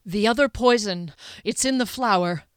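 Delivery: winded, urgent news; catching breath. Acted. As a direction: blurt it out while catching your breath. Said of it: "catching his breath".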